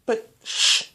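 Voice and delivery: breathy hush; whispered shh; shushing. Acted. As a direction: hush her quickly. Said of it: "the Doctor shushed her".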